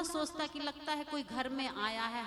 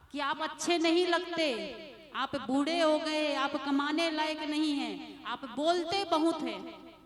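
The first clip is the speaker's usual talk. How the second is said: scornful son; 4 dB louder than usual. Retold or imitated. Ungrateful son berating his aged parents, louder and scornful. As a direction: sneer the complaints at them like an ungrateful son.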